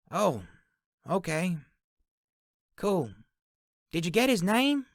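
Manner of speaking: high voice calling back through a door; Sally calling back. A narrator's reading. Sally calls back through the door to Tarhoon, high voice. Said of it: "Sally called back".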